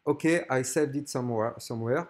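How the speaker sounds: English with a French accent. Real, not acted. French viewer guide reading the wallet button, French-accented English. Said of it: "Excusez-moi pour mon accent".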